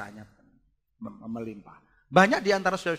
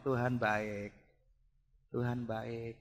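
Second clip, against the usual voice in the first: flat mumbled praise; 7 semitones lower, 13 dB quieter, slower than usual. Retold or imitated. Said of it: "Dia tidak hanya ngomong".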